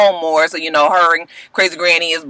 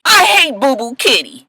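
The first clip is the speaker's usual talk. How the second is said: put-on childish granny whine; 7 semitones higher than usual. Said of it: "Crazy Granny complains".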